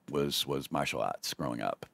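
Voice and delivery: Boston accent on martial arts. Real, not acted. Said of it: "Your Boston accent just came through".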